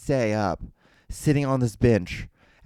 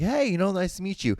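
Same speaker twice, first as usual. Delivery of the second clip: cheery high greeting; 8 semitones higher than usual. Retold or imitated. Rental staff greeting cheerfully.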